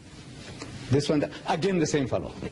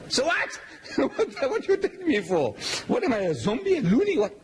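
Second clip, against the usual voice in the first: mock outrage; 12 semitones higher than usual. Imitating the man's outraged reply.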